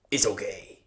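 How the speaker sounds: soft breathy it's okay; big driver calmly shrugging off the damage; whispered reassurance. Retold or imitated. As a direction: hush it gently. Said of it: "He's like".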